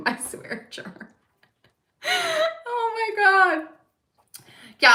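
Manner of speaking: ordinary talk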